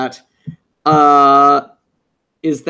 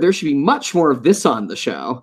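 sarcastic; 3 semitones higher than usual. Acted. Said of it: "I'm being a little sarcastic".

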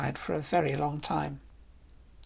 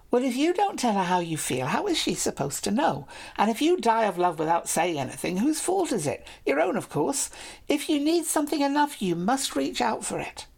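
teasing lady; 6 semitones higher than usual. Acted. Lady scolds shy knight.

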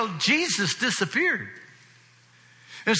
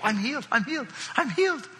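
excited healed man; 4 semitones higher, faster than usual. Retold or imitated. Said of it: "You think he got excited?".

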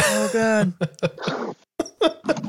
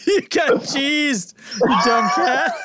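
laughing shout; 2 semitones higher than usual. Real, not acted. Yelling at cat in gif.

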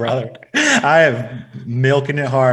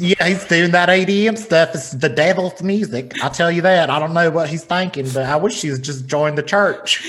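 lightly voiced Southern church aunt; feminine Southern man; 3 semitones higher than usual. Aunt fretting over her nephew's music, light Southern accent. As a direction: play a disapproving Southern relative, lightly accented. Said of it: "that's my feminine Southern man accent".

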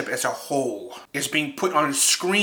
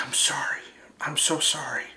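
tearful sorry; 4 dB quieter than usual. Retold or imitated. Crying teacher quoted.

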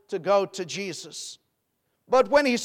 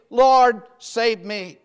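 loud cry on Lord, falling away on save me; 6 dB louder, much slower than usual. Retold or imitated. Peter sinking, crying out to the Lord for rescue, loud plea. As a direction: call out Lord for rescue, then drop. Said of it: "he cried".

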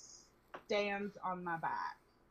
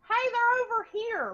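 much higher, louder shout of discovery; calling out; 14 semitones higher, 11 dB louder than usual. Retold or imitated. Girl spots them behind bushes, shouting loudly. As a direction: yell it across the yard to the others.

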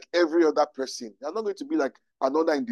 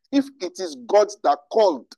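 higher, louder, impassioned declaration; voice rising with passion; 4 semitones higher, 5 dB louder than usual. Real, not acted. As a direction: let conviction push your voice up and out. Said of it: "sorry, my voice just went up".

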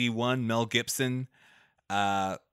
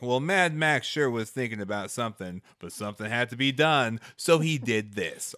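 Dukes of Hazzard voiceover. Retold or imitated. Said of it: "It's like a Dukes of Hazzard voiceover".

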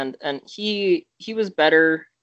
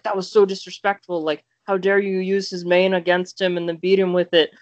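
higher-pitched imitation of an offended player; mock indignation; 4 semitones higher than usual. Danny scolds the player over using his main, mildly mock-indignant. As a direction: retell his outrage in a raised pitch. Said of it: "Danny got really mad, like, super mad".

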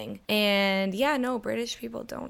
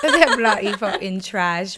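loud, slow mock-British swearing; hammed-up British through a laugh; British accent; 8 dB louder, slower than usual. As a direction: punch it out in bad British. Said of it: "you think my British accent is so good".

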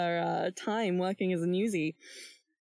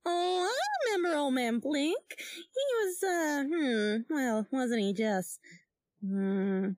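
Dula reminiscing cagily. Acted. Plays Dula recalling an old acquaintance.

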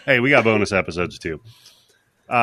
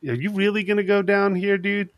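talking to the screen; 5 semitones higher than usual. Retold or imitated. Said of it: "And I'm, I'm like".

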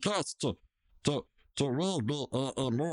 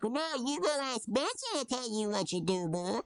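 mock Rigby; 10 semitones higher than usual. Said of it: "he's like".

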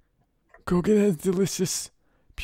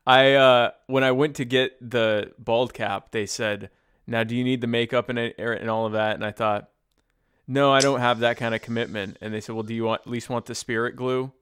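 Brando voice; 4 semitones lower, 4 dB louder than usual. Acted. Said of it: "doing that voice".

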